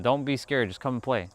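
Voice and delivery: put-on quietly retelling what he told kids; retold invitation. Streamer retelling chat what he told kids, soft. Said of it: "I told them".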